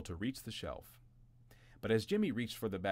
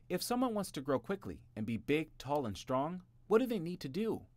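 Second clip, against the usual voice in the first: brother asking; 9 semitones higher than usual. A narrator's reading.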